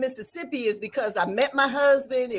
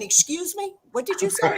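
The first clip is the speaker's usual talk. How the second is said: higher-pitched baffled question; asking for a repeat, pitched up; puzzled asking; 6 semitones higher than usual. Retold or imitated. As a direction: quote yourself politely not catching it. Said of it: "because I kept saying".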